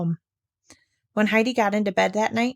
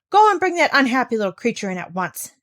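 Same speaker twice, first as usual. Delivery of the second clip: louder curt command to a servant; sharp order; 4 semitones higher, 5 dB louder than usual. Acted. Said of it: "she ordered Sebastian".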